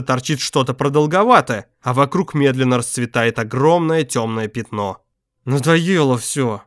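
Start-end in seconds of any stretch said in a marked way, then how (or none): 5.4-6.6 through gritted teeth. Acted. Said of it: "сквозь зубы проговорил Алекс".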